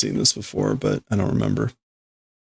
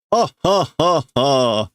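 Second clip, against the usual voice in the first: acted laugh; 4 semitones higher, slower than usual. Voicing character laughing.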